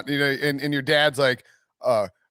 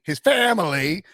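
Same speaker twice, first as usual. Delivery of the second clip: mock Southern accent; slower than usual. Mocking coach's drawn-out word.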